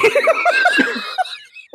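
a real, very high shriek of laughter. Real, not acted. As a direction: let out a piercing laugh. Cracking up at self.

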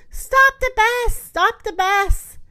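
high, loud teacher's shout; alarmed shout. A narrator's reading. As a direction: call out urgently to halt everyone. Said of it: "Miss Glass shouts".

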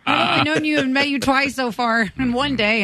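mock outrage broken by laughter; a kid's mock rant at the bus driver, laughing; laughing through it. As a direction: giggle through a fake rant. Retelling fight with bus driver.

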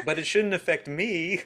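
laughing while talking. Real, not acted. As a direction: giggle through the line. Laughing at the tease.

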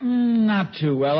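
drowsy and yawning; sleepy, slow morning mumble. Real, not acted. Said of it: "third time you've yawned".

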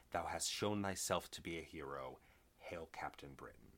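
measured archaic proclamation, lightly intoned; formal reading. Acted. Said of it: "what we get here in issue ten".

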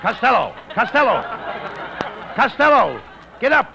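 trembling whiny yelps. Acted. Referee yelling to fallen Costello.

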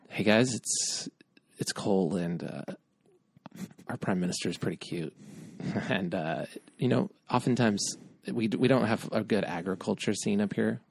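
a hushed, sleepy hammed-up Canadian; Canadian impression. Host mimics a Canadian listener in a hushed low voice. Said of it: "This is my impression of Canada".

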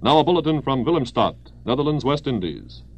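brisk wartime radio bulletin; old newsreel. Acted. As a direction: read it like a 1940s news announcer.

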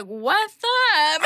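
mock lisp through missing front teeth; toothless lisp. Imitating the toothless date's greeting, lisping. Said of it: "The front four teeth were gone".

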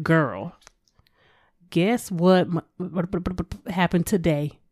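put-on casual girlfriend gossip voice; with-friends voice. Shown as a demonstration. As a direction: drop into relaxed talk with your friends. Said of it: "when you get outside with your friends".

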